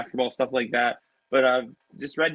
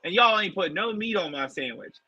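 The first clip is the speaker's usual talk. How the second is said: angry customer; 7 semitones higher than usual. Retold or imitated. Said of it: "And she's like".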